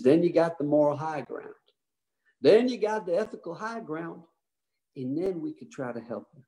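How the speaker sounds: put-on light Texas accent; a hint of a Texan president; Texas drawl. Johnson advising Israel in a light Texas accent. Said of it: "with his Johnson City, Texas accent".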